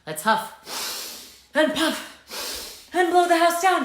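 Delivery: slow drawn-out huffing; huffing wolf. Shown as a demonstration. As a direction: lead the kids in a slow wolf huff. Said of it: "Are you ready?".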